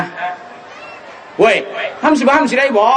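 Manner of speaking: a touch of blunt, hearty Isan speech; Isan accent. Retold or imitated. Preacher imitating northeastern folk chatting, in a light Isan accent. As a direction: toss it out like a rough-and-ready northeastern villager. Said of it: "เรียกว่าขึงขัง".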